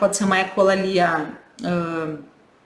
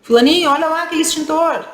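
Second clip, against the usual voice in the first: put-on high, loud call to a child; acted parent pointing something out excitedly; 8 semitones higher, 5 dB louder than usual. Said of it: "O pai fala dez vezes".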